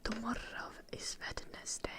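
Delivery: whispered with a Finnish accent. Shown as a demonstration. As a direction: say it like a Finn, in a whisper. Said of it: "the only thing that I can say with Finnish accent".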